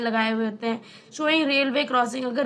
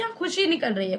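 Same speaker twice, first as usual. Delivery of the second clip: happy tone. Shown as a demonstration. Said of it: "तो इसी तरीके से बात करो कि".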